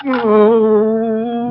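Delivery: high flustered yelp; startled high oh; embarrassed oh. Acted. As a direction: caught out and blushing. Embarrassed, blushing.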